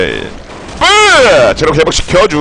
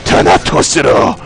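slow, low, whispered grand declaration; mock villain proclamation; 5 semitones lower, much slower than usual. Streamer to his teammates, unleashing his move: slow whispered mock proclamation. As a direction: announce the ultimate like a dark lord, drawn out.

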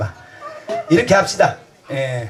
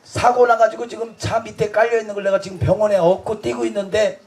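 retold angry shout; 3 semitones higher than usual. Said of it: "막 내가 확 화를 냈지".

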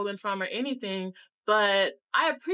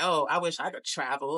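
mocking his attitude; 5 semitones lower than usual. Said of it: "type of attitude".

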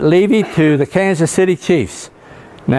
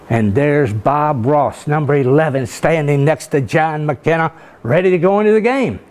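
radio announcer. Retold or imitated. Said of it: "W L E E radio station".

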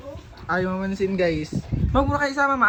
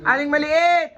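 calling out; 3 semitones higher, 4 dB louder, slower than usual. Real, not acted. Calling out to crying child.

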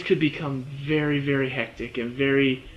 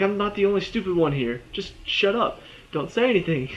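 exasperated scolding; 4 semitones higher than usual. Retold or imitated. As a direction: lecture a dumb character through the screen. Scolding Jim as a viewer.

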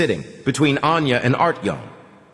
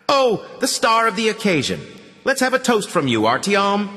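high, mocking toast call; mock the guest of honour, pitched up; mocking host; 11 semitones higher than usual. A narrator's reading. Host mocks Artyom at table.

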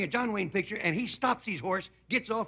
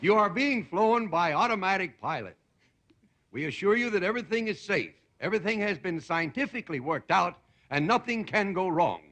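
recorded announcement. Acted. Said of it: "a voice comes on".

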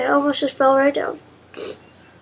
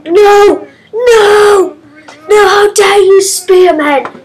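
loud indignant no's; loud mock-outraged shouting; 5 semitones higher, 8 dB louder, much slower than usual. Real, not acted. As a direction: yell at the spearman in outrage. Killed by a spearman.

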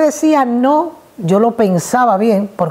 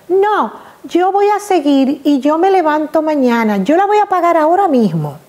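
lightly voiced little girl, higher; daughter's voice; 5 semitones higher than usual. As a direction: play the stubborn small daughter. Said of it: "daughter answering mother".

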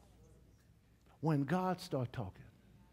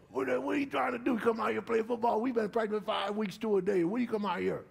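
higher mocking teammate; teammate's voice; 5 semitones higher than usual. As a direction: sneer like a doubtful teammate. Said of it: "That's how he talk".

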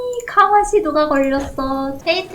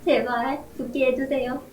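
mock prayer; 4 dB quieter than usual. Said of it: "이렇게 기도드립니다".

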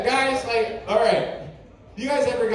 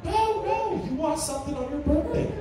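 mock wife; 6 semitones higher, 4 dB quieter than usual. Acting wife goading during argument.

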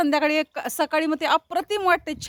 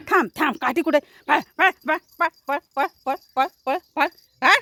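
shooing off. Real, not acted. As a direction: chase the animal off with sharp calls. Chasing the cow away.

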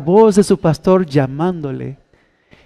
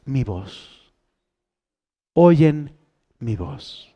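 hushed; 6 semitones lower, 7 dB quieter, much slower than usual. Acted. Énfasis íntimo en la voz.

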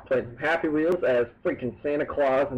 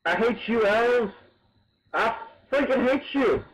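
tag; 10 semitones higher, 6 dB louder, slower than usual. Real, not acted. Ranting at game obstacles.

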